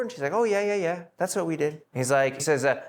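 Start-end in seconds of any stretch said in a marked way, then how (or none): 0.3-1.8 higher, gushing fake yes-yes; eager liar. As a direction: overeager to cover a lie. Sapphira lying about the money.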